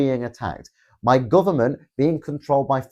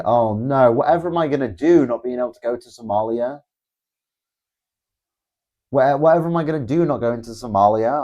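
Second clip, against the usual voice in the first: mock dismay. Mock dismay at Somalia ban.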